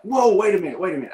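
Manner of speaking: high, startled whoa, then catches himself; a touch of teasing disbelief; mock surprise. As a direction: play it like you just caught them out. Playful surprise at kids' request.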